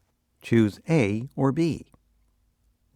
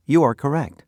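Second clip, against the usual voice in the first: louder, upbeat praise; cheerful praise; 4 semitones higher, 5 dB louder, faster than usual. Acted. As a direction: cheer the student on. Praising correct answer.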